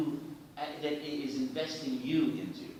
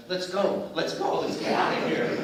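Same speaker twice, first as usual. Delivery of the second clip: urgent call; 3 semitones higher, 7 dB louder than usual. Retold or imitated. Cameraman urging everyone to leave.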